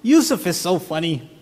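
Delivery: lightly voiced little girl calling Dad; young daughter. Preschool daughter tells Dad about a classmate, lightly voiced little girl. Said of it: "she goes to me".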